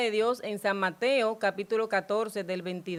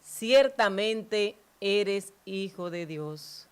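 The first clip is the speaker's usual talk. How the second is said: awed confession; much slower than usual. Acted.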